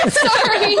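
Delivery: a high, loud giggled apology; embarrassed laugh. Real, not acted. Student apologizing to pastor, laughing through tears.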